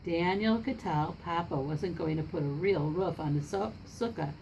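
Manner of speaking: put-on lively read-aloud for children; story narration. A narrator's reading. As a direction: read the picture book to the class, with voices. Reads picture book to class.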